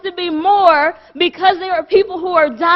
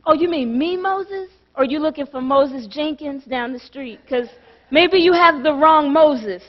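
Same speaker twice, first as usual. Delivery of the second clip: lightly voiced Moses dodging the call; a hint of a nervous Moses playing dumb; playing a reluctant Moses; 2 semitones lower than usual. Preacher acting Moses pretending God has the wrong man. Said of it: "this is what Moses did".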